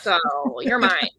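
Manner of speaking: mock-dramatic lovestruck hero. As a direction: play the smitten man claiming her. Voicing smitten hero's confession.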